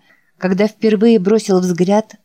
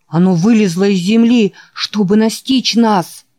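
frightened; 3 semitones higher than usual. Acted. Tree attacks, Richard frightened.

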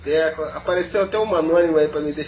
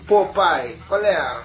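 put-on teenager voice; slower than usual. Shown as a demonstration. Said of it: "Tem que falar com aquela voz de adolescente".

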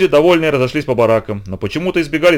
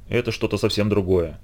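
hushed night talk; 6 dB quieter than usual. Acted.

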